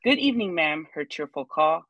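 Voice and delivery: measured, rhythmic poem recital; poem reading. Acted. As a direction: read your little psalm with gentle cadence. Reads her own poem aloud.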